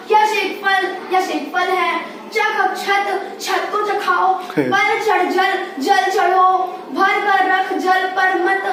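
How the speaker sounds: halting read, words grouped in the wrong places; misplaced-pause reading. Shown as a demonstration. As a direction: read it literally with nonsense breaks, drawing out चख अब छत. Reading pupil's wrongly punctuated homework. (गलत जगह रुक-रुक कर पढ़ना)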